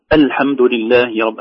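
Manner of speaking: "الحمد" opened on a distinct "al"; slow recitation, sound the hamza of "الحمد"; clear hamza. Shown as a demonstration. Teacher showing the reminded student's reading, clear "al" starting "الحمد". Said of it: "مع كثرة التنبيهات يجعله في الحسبان".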